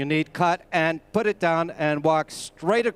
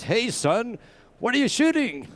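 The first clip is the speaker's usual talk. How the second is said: tourist dad; 5 semitones higher than usual. Retold or imitated. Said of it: "Papa Bear comes over to me and says".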